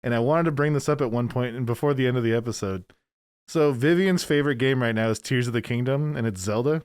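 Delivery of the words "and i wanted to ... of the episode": talking through a mask; muffled behind a costume mask. Real, not acted. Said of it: "I'll explain in a muffled voice".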